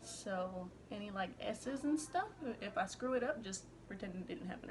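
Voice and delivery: slight lisp from a retainer; talking around a retainer; wearing a retainer. Real, not acted. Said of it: "I've got my retainer in".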